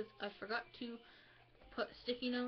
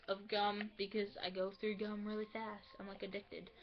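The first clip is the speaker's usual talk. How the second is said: talking while chewing gum; words round a wad of gum. Real, not acted. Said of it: "I'm, like, chewing gum right now".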